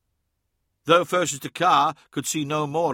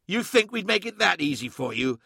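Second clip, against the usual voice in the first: higher, venomous hissed taunt; hissing; 5 semitones higher than usual. A narrator's reading. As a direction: hiss it with contempt. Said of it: "hissed Fosus Takar".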